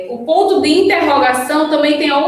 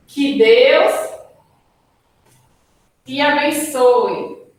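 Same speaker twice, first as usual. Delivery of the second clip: exclamatory wish; slower than usual. Shown as a demonstration. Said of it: "A exclamação, por exemplo".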